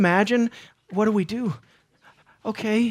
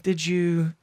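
Peter accusing; 4 semitones lower, 4 dB quieter than usual. Retold or imitated. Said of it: "Or he was saying".

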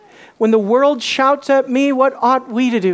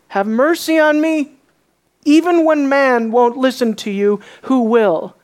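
higher and louder, insistent; louder cry; 4 semitones higher than usual. Acted. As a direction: call out again, harder this time. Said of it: "I'll say it again and I'll say it louder".

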